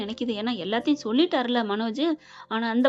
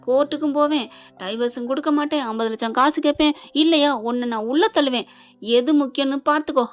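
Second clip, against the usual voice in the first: louder, hard warning threats; threatening; 5 dB louder than usual. Retold or imitated. Wife threatens her husband with court and jail, loud ultimatum. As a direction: lay down the ultimatum firmly.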